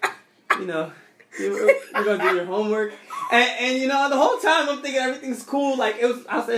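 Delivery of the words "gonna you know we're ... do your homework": calm principal voice. Retold or imitated. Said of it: "in her nice principal voice".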